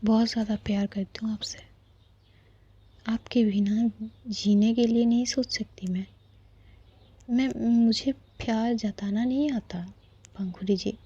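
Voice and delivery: whispered love confession; hushed, intimate confession of love; tender whisper. Acted. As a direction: breathe it softly to your beloved.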